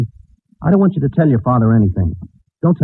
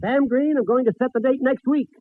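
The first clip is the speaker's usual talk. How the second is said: gentle father; 10 semitones higher, 7 dB quieter than usual. Acted. Announcer voicing fathers' replies.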